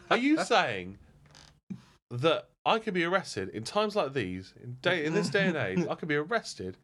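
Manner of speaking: high-pitched imitated disbelief; mock incredulity. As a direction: labour the question as a baffled passenger. Quoted bit, baffled passenger checks again.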